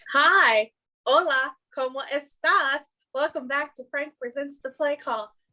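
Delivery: fake girlish voice. Host opening the podcast when cued, in a put-on white girl voice. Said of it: "I tried to put on my white girl voice".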